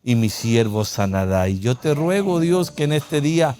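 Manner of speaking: pastor praying aloud to open the service; prayer. Acted. Opening prayer over music.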